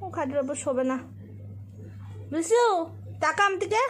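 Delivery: high, loud pet talk; talking to the dog. Real, not acted. Girl coaxing her dog onto the bed, high loud pet talk.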